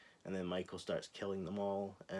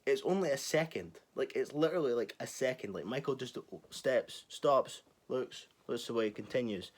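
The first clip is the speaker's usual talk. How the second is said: excited emphasis; 4 semitones higher, 5 dB louder than usual. Real, not acted. Excited retelling of the silence.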